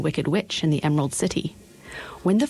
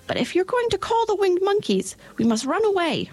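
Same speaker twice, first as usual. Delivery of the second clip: squeaky mouse queen; 7 semitones higher than usual. Acted. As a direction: draw it out like a tiny queen. Queen of the Mice voice.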